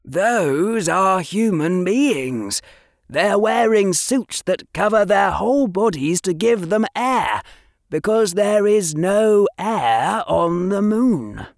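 a hint of a keen boy showing off; Harry explaining muggle pictures to Draco; young Harry. Harry voiced in reading.

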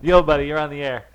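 loud host greeting a caller; radio host voice. Acted. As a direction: boom it like a DJ taking a call. Taking a caller on air.

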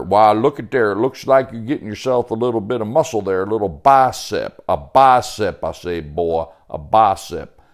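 loud, folksy country character voice; hearty backwoods Sebastian, teasing. Acted. Sebastian admires Joey's new muscle, hearty teasing. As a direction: play a big-talking woodsman, punching his words.

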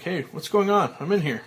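loud, high call for help. Acted. Frank trapped in the coffin, high loud call. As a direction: shout through the coffin lid.

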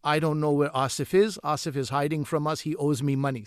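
put-on subtle Pakistani accent; light Pakistani accent. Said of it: "So in my Pakistani accent".

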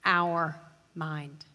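low, deliberate "our", set apart; stress on OUR. Shown as a demonstration. Preacher contrasting others' minds with ours, stress on "our". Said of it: "Let me change the emphasis on that phrase".

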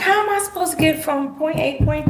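high, frustrated question; exasperated. Retold or imitated. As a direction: ask it like you're completely stuck. Exasperated retelling of being stuck.

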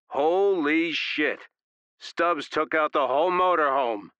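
high, loud, slow stunned shout. A narrator's reading. Angel shouting in shock after the explosion. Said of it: "Angel shouted".

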